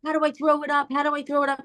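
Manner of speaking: high, panicky plea to a daughter; reenacted mum in a panic; freaking out. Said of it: "I was literally freaking out".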